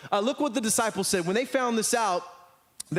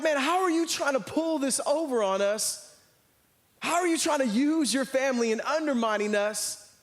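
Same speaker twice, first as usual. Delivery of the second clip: mildly indignant, higher-pitched protest; acted-out complaint with raised pitch; upset; 5 semitones higher than usual. Disciples objecting to the two brothers' scheme, mildly upset. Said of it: "they were so upset".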